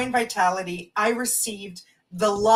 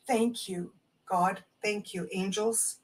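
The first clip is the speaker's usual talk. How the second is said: much softer, murmured gratitude; whispered-soft thanks; 3 semitones lower, 8 dB quieter than usual. Real, not acted. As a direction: thank God under your breath. Quiet prayer of thanks.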